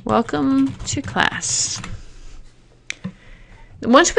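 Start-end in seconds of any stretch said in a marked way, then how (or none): 0.0-1.8 slow dictation while typing. Shown as a demonstration. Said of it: "we're just gonna say".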